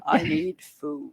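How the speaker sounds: put-on slow whiny toddler demand; a hint of a whiny toddler, slowly; hangry. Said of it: "that's what he's like".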